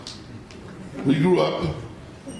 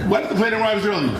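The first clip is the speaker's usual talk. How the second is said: lightly voiced eager child, higher pitch; childlike excitement; 6 semitones higher than usual. Father insisting on leaving early for the airport, with mildly childlike excitement. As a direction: pipe it up a little like an impatient child. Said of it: "He was acting like a child".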